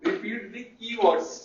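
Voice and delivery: very slow, drawn out for the class to write; slow dictation. Shown as a demonstration. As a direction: stretch each word so students can note it down. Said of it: "teacher dictates key phrase". (धीरे-धीरे लिखवाते हुए)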